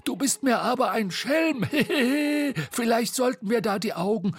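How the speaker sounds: high, cheeky teasing voice; playful high boyish tone. Acted. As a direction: tease your friend, grinning.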